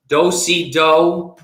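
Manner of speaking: slow, loud calling; square dance caller. Pretend.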